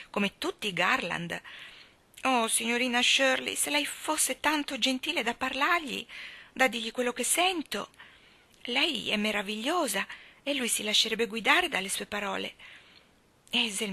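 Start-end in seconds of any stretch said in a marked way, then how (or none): 2.2-11.7 pleading gush. Acted. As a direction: beg her sweetly, dragging it out. Hazel begging Anne to help.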